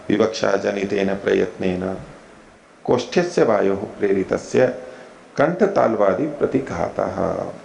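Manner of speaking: slow measured Sanskrit recitation; lightly voiced scholarly recitation; opponent recites sutra. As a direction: intone it as the opponent. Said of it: "पूर्व पक्षी बोलने लगा".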